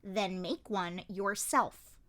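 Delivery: growled. Acted. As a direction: bite the words out slowly. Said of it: "Mao Mao growled".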